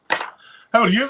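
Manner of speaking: high, slow, drawn-out how are you, rising at the end; playful sing-song greeting. Acted. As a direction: stretch it out teasingly like a mock crooner. Mate greeting back, drawn out.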